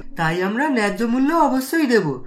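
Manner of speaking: put-on an old man gently insisting he'll pay fair price. (স্নেহভরা বৃদ্ধের কণ্ঠ)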